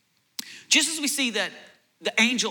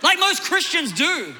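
laughing; 11 semitones higher than usual. Real, not acted.

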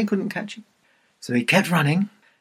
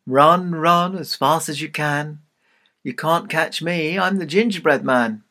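calling out; 2 semitones higher than usual. Acted. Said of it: "and he called out".

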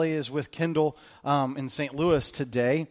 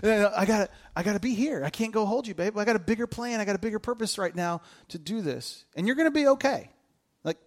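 higher, gentle pleading with a little one; dad soothing his crying one-year-old, higher and gentle; reassuring the baby; 5 semitones higher than usual. Pretend. Father reassuring crying baby daughter.

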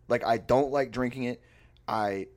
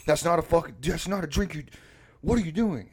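high, louder mock indignation; retold aggressive scolding; 7 semitones higher, 6 dB louder than usual. Roommate scolds friend over his drink choice, mock aggressive. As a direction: imitate an appalled roommate stumbling over his objection. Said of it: "He's getting really aggressive with me".

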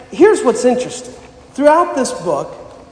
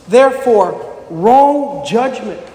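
scripture reading. Acted. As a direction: read the verses out like a preacher at the pulpit. Reads scripture aloud.

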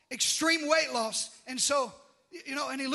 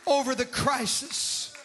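slow, building, loud sermon cry; rising preacher's roar over the congregation; full-force preaching; 4 dB louder, slower than usual. Acted. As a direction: preach it out, pounding each word. Preaching on Jesus' compassion.

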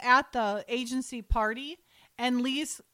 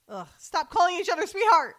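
laughing exasperation; 7 semitones higher, 7 dB louder than usual. Real, not acted. Mock disgust at movie couple.

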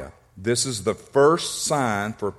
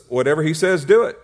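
"do it" bursts out much higher and louder; shouted command; 4 semitones higher, 6 dB louder than usual. Real, not acted. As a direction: hit "do it" like a preacher's cry. Preacher drives home key line.

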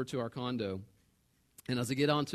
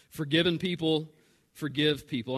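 full-voiced, emphatic repeat of the main point; clear, projected preaching; firm restatement; 3 dB louder than usual. Real, not acted. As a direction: state it out firmly with a pause in the middle. Same key line repeated out loud.

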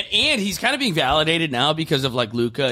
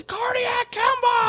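announcer call; much slower than usual. Retold or imitated. Recalling Kemba's buzzer beater.

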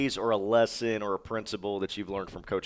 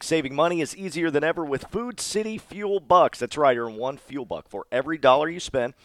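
ad read; 3 semitones higher than usual. Acted. Reads sponsor ad copy.

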